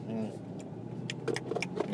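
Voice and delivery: muffled munching hum; mouth full. Acted. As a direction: pretend to talk while chewing. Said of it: "tries to eat food while he's talking".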